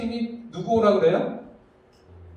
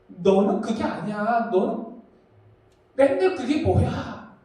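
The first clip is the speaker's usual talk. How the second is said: scolding mockery; slower than usual. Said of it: "혼내고 조롱하고 비판하면".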